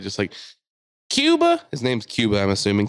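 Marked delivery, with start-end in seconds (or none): 1.1-1.6 very high, loud yell of a name; imitated screaming. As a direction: scream up at someone inside, imitating a furious woman. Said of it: "screaming at the guy inside".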